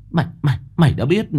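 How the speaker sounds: high, fast, stumbling over the words; panicked stammer. A narrator's reading. Mẫn exposed by Soan, blurting in panic. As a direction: caught out and panicking. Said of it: "Mẫn bị Soan vạch mặt thì hốt hoảng".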